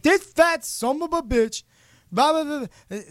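high mumbling wrestler rant; exaggerated incoherent promo; Scott Steiner.

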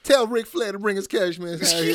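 laughing through a joke call-out. Real, not acted. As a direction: grin and chuckle the words out.

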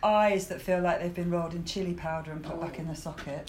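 husky hay fever voice. Real, not acted. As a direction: speak with a husky rasp. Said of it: "And this glorious husky voice".

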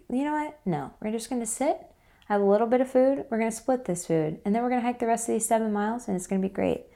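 rally her like an upbeat partner; cheerful boyfriend pep talk. Retold or imitated. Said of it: "And he was like".

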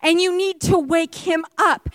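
slow mocking taunt; sarcastic suggestion; smack talking. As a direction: rub it in, unhurried. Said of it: "you are smack talking".

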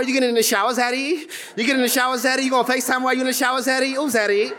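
a hint of a teasing woman's voice; lightly voiced coy woman purring Zaddy; mild imitation of a woman flirting at night; flirty late-night woman. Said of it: "She wasn't talking like that earlier".

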